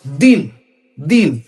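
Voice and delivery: দিন said slowly, the ই drawn out, then closed hard on ন; stretched, then stopped short. Shown as a demonstration. Teacher demonstrating a closed syllable to students, slow with a clipped end. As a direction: pull দিন out slowly and stop dead on the ন. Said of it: "যতই দিকে অনেক টানতে পারেন".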